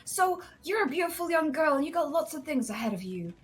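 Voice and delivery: put-on drunk boss rambling. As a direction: play the drunk boss waxing lyrical before paying. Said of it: "and he'd be like".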